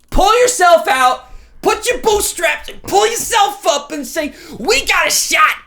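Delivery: loud, high rallying shout; hype shout. Acted. Rallying a gloomy Tennessee fan, a loud high shout. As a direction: fire him up like a coach at halftime.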